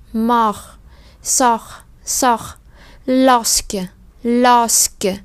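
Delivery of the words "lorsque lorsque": lorsque said slowly, each sound clear; French pronunciation drill. Shown as a demonstration. Teacher slowly modelling lorsque for students. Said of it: "Các bạn để ý cái âm sờ nha".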